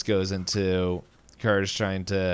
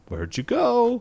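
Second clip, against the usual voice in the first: high, louder mock old-lady voice; imitating Muriel; 4 dB louder than usual. Muriel calling after the vanished rabbit, high mock granny voice. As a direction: pipe it up high like a sweet puzzled granny. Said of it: "she's just like".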